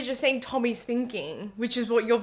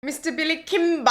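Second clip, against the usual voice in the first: put-on Billy Kimber accent, swallowed; 5 semitones higher than usual. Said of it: "I'll try it the way you're saying it".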